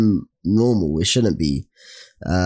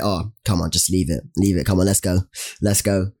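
quoting the husband; 5 semitones lower than usual. Retold or imitated. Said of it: "the husband is just like".

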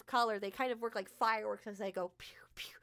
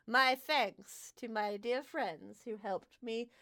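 grand fey king; slower than usual. Acted. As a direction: announce it like a ringmaster king. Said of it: "he smiles towards you all".

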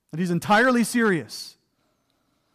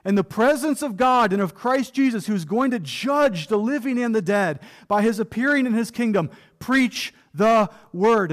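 Paul's solemn charge; 3 semitones higher than usual. Acted. Paul charging Timothy before God, urgent and grave. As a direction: deliver it as Paul binding Timothy by oath. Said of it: "what Paul says here to Timothy is".

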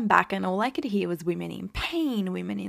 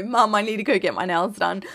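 P=A; mock insistent; 4 dB louder than usual. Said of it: "No, no, no".

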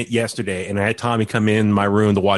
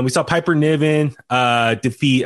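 normal talking voice

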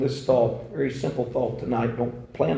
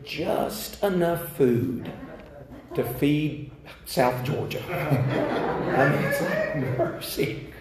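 laughing; 4 dB quieter, much slower than usual. Real, not acted. Laughing about the food.

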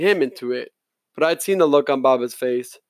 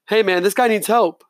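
alarmed; 6 semitones higher than usual. A narrator's reading. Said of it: "with alarm".

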